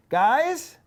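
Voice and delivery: loud, high rallying shout; big rousing host call; crowd hype. Real, not acted. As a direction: fire up the crowd, pitch rising with each question. Hyping up the live audience for applause.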